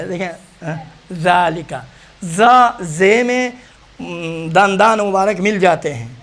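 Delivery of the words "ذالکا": ذالکا with tongue tip showing at the teeth; tongue-tip zaal. Shown as a demonstration. Teacher shows what the mirror should show, tongue-tip zaal. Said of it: "یہ نظر آنا چاہیے".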